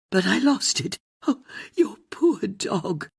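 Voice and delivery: put-on elderly caller consoling the host about the dog; pitying old lady. A narrator's reading. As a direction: sigh for the poor dog. Old caller pities the lost dog.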